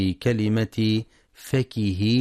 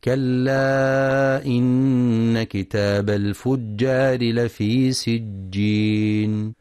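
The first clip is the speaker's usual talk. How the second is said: slow, melodic tajweed chant; Quran recitation; much slower than usual. Shown as a demonstration. Teacher recites the verse for students, slow tajweed chant. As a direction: recite the verse slowly with long held vowels. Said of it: "وفي قوله جل في علاه".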